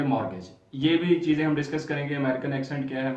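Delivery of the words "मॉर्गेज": American pronunciation. Shown as a demonstration. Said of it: "American अगर होंगे तो वो इसको पढ़ेंगे".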